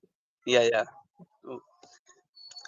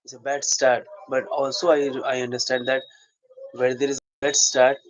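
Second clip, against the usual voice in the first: soliloquy; 2 semitones lower than usual. Shown as a demonstration. Actor to himself about a bad start, soliloquy. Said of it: "I'm right now going to do soliloquy".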